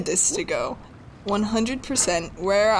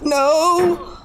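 shocked no; 8 semitones higher, 5 dB louder than usual. Real, not acted. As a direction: gasp then loud high "No!". Falling off again in game.

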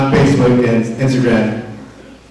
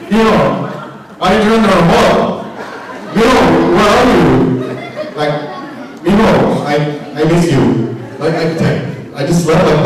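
mom voice. Retold or imitated.

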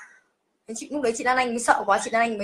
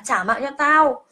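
slow mock ghost threat; 4 semitones higher, slower than usual. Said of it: "nói những cái lời rất là kinh khủng".

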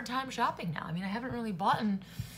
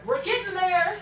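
higher and louder, upbeat; cheerful; 7 semitones higher, 6 dB louder than usual. Real, not acted. Reassuring viewers about sugar, upbeat cheer. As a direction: cheer yourself on.

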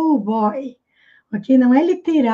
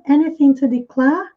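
British non-rhotic demo. Shown as a demonstration. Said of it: "Eles não costumam pronunciar o R".

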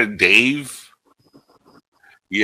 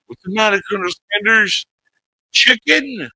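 high mock taunt; 13 semitones higher than usual. Repeats taunting quote.

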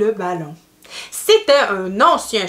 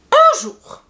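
high, bright-pitched story opening, louder; storytelling opener; 5 dB louder than usual. A narrator's reading. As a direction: open the tale for little listeners. Opens the story to children.

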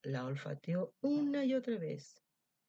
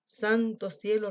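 slow sigh; 2 semitones higher, 6 dB louder, slower than usual. Acted. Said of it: "respondió el lobo".

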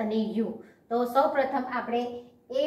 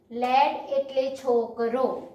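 slow clear reading; slower than usual. Shown as a demonstration. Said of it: "આ રીતે વાંચીશું".

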